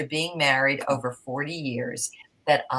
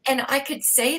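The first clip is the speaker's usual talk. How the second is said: high, tearful voice; words pushed out through tears; still emotional; 8 semitones higher than usual. Real, not acted. Guest still tearful after thanking the host, voice choked. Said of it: "I'm getting so emotional".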